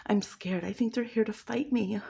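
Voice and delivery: a hint of mock panic; mock scared. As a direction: fake panicked whisper-light voice. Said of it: "immediately like".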